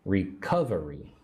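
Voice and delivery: "Recovery" as one word, stressed on CUV; stress on second syllable. Shown as a demonstration. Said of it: "Put the emphasis on the second syllable".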